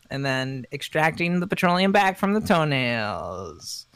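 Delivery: slow, stretched-out pretend product spiel; mock district spokesman. District fourteen rep explaining toenail farming, slow mock spiel. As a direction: draw it out like a lightly played pitchman.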